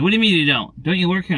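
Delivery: lightly voiced pushy shopper; rude lady. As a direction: imitate an indignant woman questioning a stranger. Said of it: "there's some rude people like this".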